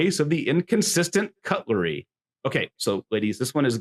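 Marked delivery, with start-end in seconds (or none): 0.0-2.1 higher-pitched title call; hammed-up ringside billing; wrestling announcer. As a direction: announce the next bout with ceremony. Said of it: "my best wrestling announcer voice".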